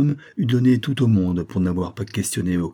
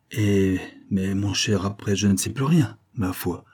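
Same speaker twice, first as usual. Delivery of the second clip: sneering snicker. Acted. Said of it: "ricana le Cardasol".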